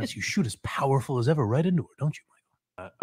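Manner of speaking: fast, sleazy fake therapist; creepy leading mock shrink. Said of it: "the most disgusting therapist voice".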